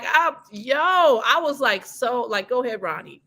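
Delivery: normal talking voice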